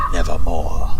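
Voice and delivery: low croaking raven voice. Acted.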